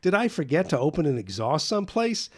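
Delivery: high, loud, frantic fretting; a father fearing he wrecked the flues; worried father. Retold or imitated. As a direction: beg for an answer, panicking. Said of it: "my father kept saying".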